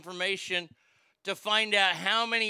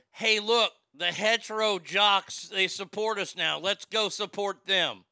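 mock cheer; 4 dB louder, slower than usual. Mocking imagined gay fans' reaction.

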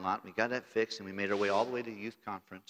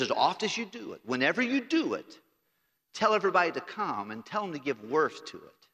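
raised, higher, louder proclamation; preaching God's words; 5 semitones higher, 4 dB louder than usual. Acted. Preacher booming God's command to the congregation, proclaiming. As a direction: ring it out like God's own command.

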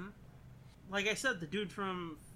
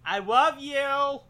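dramatic lover; 8 semitones higher, 10 dB louder, much slower than usual. Pretend. Voicing the movie character.

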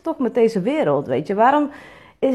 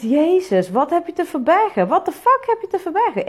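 incredulous, rising higher in outrage; exasperated disbelief; 7 semitones higher than usual. Retold or imitated. Vlogger imagines replying to a workshop guest, exasperated. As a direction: fire off the question in disbelief at a critic.

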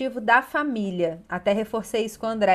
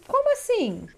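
much higher, taken-aback question; startled father; 11 semitones higher than usual. Retold or imitated. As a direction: play the shocked father. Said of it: "Aí ele falou assim". (pai surpreso, pergunta bem mais aguda)

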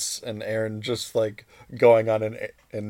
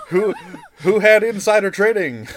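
laughing; 10 semitones higher, 9 dB louder than usual. Real, not acted. Laughing while joking.

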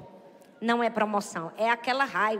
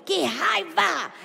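self-directed frustration. Retold or imitated. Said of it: "ela faz".

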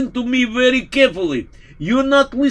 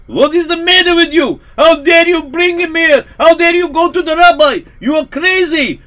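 angry shout, a touch higher and louder; screaming at him; 4 semitones higher, 4 dB louder than usual. Acted. Priest screaming at the father, angry shout. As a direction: yell at him in outrage. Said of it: "he started screaming".

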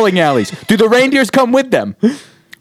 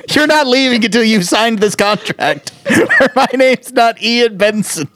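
desperate car salesman; 3 semitones higher than usual. Acted. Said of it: "I'm also a desperate car salesman".

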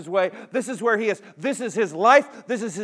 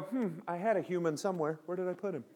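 puzzled God; 10 dB quieter than usual. Retold or imitated. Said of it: "He didn't come down and go".

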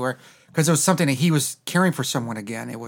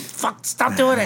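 drawn-out mock plea; 8 semitones higher, much slower than usual. Pleading at the actor's accent.

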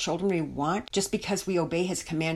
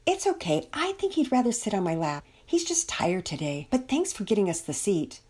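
lightly voiced, excusing her child; embarrassed mother; 3 semitones higher than usual. Missus Belmont was red-faced.

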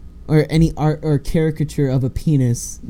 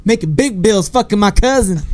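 mock redneck; 7 semitones higher than usual. Mocking farm-boy classmates.

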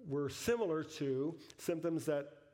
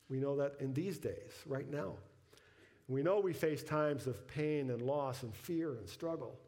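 closing prayer. Real, not acted. Pastor prays for the congregation at service's end, earnest prayer. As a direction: lead them in earnest, unhurried prayer.

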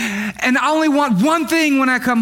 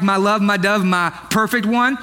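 laying it on thick; 4 semitones lower than usual. Retold or imitated. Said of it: "What does that sound like?".

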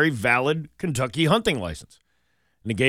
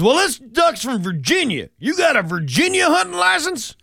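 hammed-up game warden, higher and louder; 13 semitones higher, 4 dB louder than usual. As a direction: play a mock angry country game warden. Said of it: "And he goes".

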